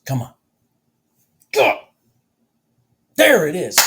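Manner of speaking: will the price upward; excited cheering. Real, not acted. Cheering on a trade live.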